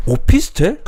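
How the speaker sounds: high, loud startled echo; hammed-up disbelief; mock shock. Boyfriend shocked. (높고 크게 깜짝 놀라 되묻기)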